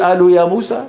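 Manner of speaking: incredulous question, قالوا said as "aalu" with glottal stop; mock the dialect reading, قالوا without its q; hamza for qaf. Shown as a demonstration. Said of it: "هل يقرأ القرآن هكذا؟".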